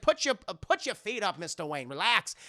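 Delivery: lightly hammed-up Southern host; Southern accent. Rossum telling Bruce to relax, Southern accent. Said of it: "He has a very thick Southern accent".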